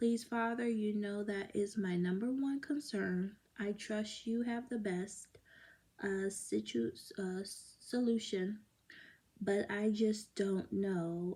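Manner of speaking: usual speaking voice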